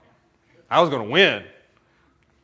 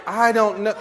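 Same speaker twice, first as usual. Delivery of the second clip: higher, louder helpless protest; mock exasperation; flustered husband; 7 semitones higher, 5 dB louder than usual. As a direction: plead ignorance, voice pushed up. Husband flustered in retold quarrel.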